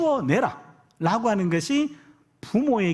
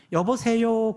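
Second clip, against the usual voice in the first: lightly voiced little child's hello, drawn out; a hint of an eager toddler on the phone; small child answering phone; 3 semitones higher, much slower than usual. Toddler learning to talk picks up the phone, lightly imitated child. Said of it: "이 녀석이 쪼르륵 가도 지가 전화를 받아요".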